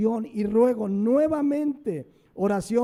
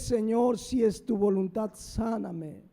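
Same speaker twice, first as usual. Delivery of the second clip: humble prayer. Retold or imitated. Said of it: "Con humildad".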